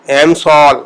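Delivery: ایم سال said with a Persian e vowel; Persian example word. Shown as a demonstration. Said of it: "مثال ہم دیکھتے ہیں".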